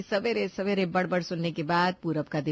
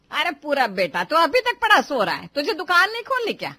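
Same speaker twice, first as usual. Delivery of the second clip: scolding mother; 4 dB louder than usual. Acted. Mother scolding lazy son.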